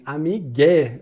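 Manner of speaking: Amigue shouted up high and loud; calling a friend. Retold or imitated. Calling a friend loudly in the street. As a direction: yell Amigue across the street. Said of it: "você grita assim".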